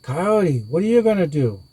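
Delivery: a hint of worried villagers asking Coyote; appealing people. A narrator's reading.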